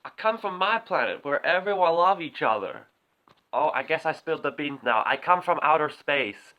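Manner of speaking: Tommy Wiseau voice. Acted. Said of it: "Tommy Wiseau is actually an alien".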